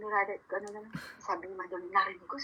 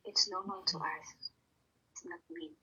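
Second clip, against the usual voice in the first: calm; 2 semitones lower, 4 dB quieter, slower than usual. Retold or imitated. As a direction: say it calmly, letting it trail softer. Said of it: "I said that with calmness". (kalmado at mahinahon)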